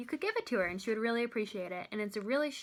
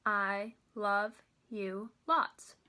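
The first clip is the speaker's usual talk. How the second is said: very slow, one word per beat; syllable-testing demo, drawn out and evenly spaced; counting syllables; much slower than usual. Shown as a demonstration. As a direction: separate each word with a clear pause. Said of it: "let's test that out and see".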